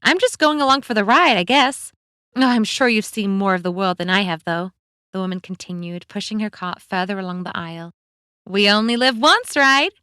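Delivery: lively friendly American woman; cheerful woman voice. Acted. Chatty woman character voice.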